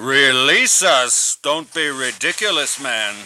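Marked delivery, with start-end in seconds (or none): 0.0-1.4 slow, incredulous question; indignant. Acted. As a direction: draw it out in disbelief. Offended prisoner refuses quiet release.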